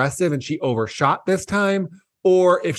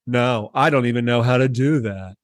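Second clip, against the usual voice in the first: lower-pitched, dispassionate mock denial; imitated unconcerned denial; 4 semitones lower than usual. Imitating Erica denying the leak, dispassionately. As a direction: play down the denial in a low register. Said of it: "be more passionate, reactionary".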